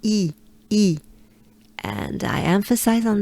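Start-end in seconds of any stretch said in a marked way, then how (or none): 0.0-1.0 E said with a wide banana smile; smiling E. Shown as a demonstration. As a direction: spread the lips wide for E. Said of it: "a big smile".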